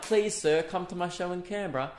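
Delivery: mock begging voice; Oliver Twist. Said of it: "I feel like Oliver Twist".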